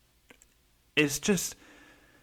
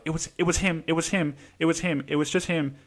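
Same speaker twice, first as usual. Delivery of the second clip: higher, quick repeated denial; defensive blaming; 4 semitones higher, faster than usual. Retold or imitated. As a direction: imitate a panicky kid shifting the blame. Retold girl hastily blaming a boy.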